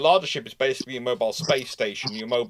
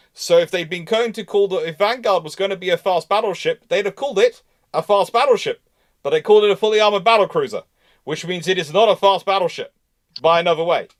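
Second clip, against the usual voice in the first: emphatic louder; 6 semitones higher, 6 dB louder than usual. Real, not acted. Heated naval argument.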